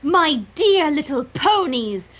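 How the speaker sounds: lightly voiced grandiose villainess; grandiose address. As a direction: address the crowd in grand style.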